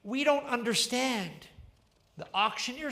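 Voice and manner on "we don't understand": crowd crying out. Acted. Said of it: "And the people cried out".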